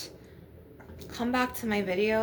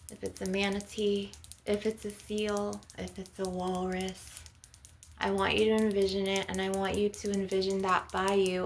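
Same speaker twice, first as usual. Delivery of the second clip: guided meditation. Acted. Healer guiding listeners to envision a healing ocean, guided meditation. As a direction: lead listeners gently through an imagined scene.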